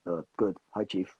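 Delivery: low, offhand reply; barely acknowledging. Retold or imitated. Colleague brushing off an auditioning actor's hello, barely acknowledging. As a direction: answer as if hardly noticing them. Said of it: "he hardly acknowledged me".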